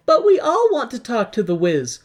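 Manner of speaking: high whiny Dorothy plea; Dorothy pleading. Retold or imitated. Dorothy begging the guards to let her friends in, high pleading. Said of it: "Dorothy is like".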